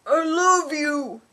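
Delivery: slow, loud, hammy gruff lover; goofy tone. Acted. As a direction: overact the line like a cheesy romance hero. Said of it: "worth reading in a goofy tone".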